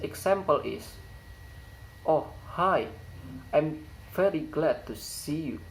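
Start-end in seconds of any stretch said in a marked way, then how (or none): 2.0-5.6 "hi" and "see" start high and fall; friendly emphatic drop from high on "hi" and "see"; high fall intonation. Shown as a demonstration. Teacher models an informal greeting, high fall intonation. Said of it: "high fall intonation occurs in word".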